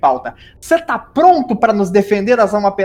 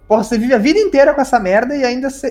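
mock outrage; 5 semitones higher, faster than usual. Indignant rant about ghost bruxism.

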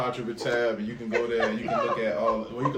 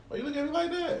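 laughing; 14 semitones higher, 4 dB quieter than usual. Real, not acted. Teasing blame, laughing.

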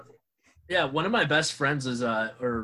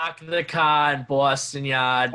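put-on Boston accent; 3 dB louder, slower than usual. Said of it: "That's not even Boston".

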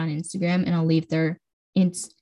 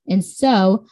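voice crack; 6 dB louder, much slower than usual. Real, not acted. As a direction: voice cracking mid-word. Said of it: "that voice crack".

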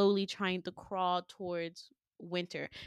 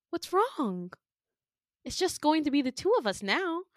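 much higher, cooing voice; mock-sweet villain; 8 semitones higher than usual. Villain comforting terrified Winter, mock-sweet. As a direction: coo it with creepy reassurance.

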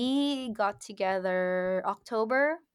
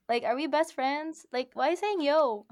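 high-pitched, puzzled complaint; incredulous; 6 semitones higher than usual. Retold or imitated. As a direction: question it in amused disbelief, pitched up. Mock indignation at being greeted yo.

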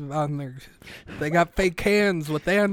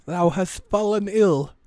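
higher, theatrical olden English; put-on period-drama voice; mock Shakespearean; 4 semitones higher than usual. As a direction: solemnly declaim an archaic diagnosis. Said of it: "like, Shakespeare and shit".

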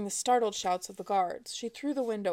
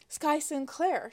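slow, a touch of breathless impatience; 6 semitones higher, slower than usual. A narrator's reading. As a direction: let it out a bit breathless and impatient. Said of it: "injecting a note of breathless impatience into her voice".

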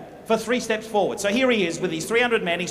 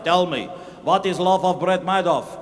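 lower, demanding voice; insistent soldier; 4 semitones lower than usual. Pretend. The other soldier insists, lower and demanding. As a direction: press him for the answer. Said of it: "He says".

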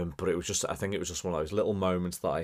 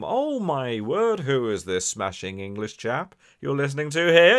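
amazed friend; 7 semitones higher, 9 dB louder than usual. Retold or imitated. Listener telling a friend about the podcast, mock amazed. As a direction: play a friend bowled over by the show. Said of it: "play it in front of 'em".

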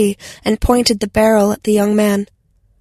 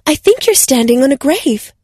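announcing; 4 semitones higher than usual. Acted. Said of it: "Anna announced".

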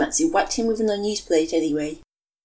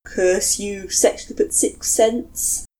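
groaning curse; 2 semitones higher, 3 dB louder, much slower than usual. Acted. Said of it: "groaned out a long, noisy sigh".

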